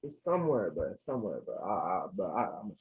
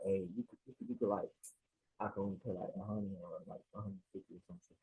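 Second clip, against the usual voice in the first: timid lowball; 9 semitones lower, 15 dB quieter, faster than usual. Retold or imitated. His own timid lowball offer.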